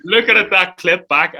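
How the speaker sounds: giggling through the words; can't stop laughing at the clip. Real, not acted. Host laughing while watching back his own prank clip. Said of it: "I'm sorry".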